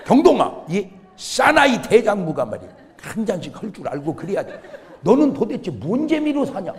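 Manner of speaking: lightly voiced nagging father; mock chiding, calling out to a son; scolding father. Father chides his son for not drinking, mock scolding. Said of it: "우리 아버지는 날 보고 맨날 술 안 먹는다고 혼냈어".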